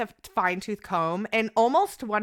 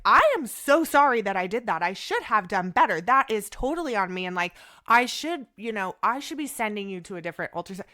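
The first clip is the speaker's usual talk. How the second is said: admitting fault; 4 dB louder than usual. Shown as a demonstration. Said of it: "where I never said".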